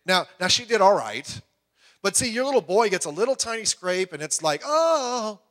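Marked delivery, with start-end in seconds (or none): 4.6-5.4 fussing mother. Retold or imitated. Mother fussing over scraped boy.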